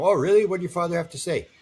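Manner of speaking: lightly voiced mother, eager and surprised. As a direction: play the startled, curious mother. Mother answering dying father.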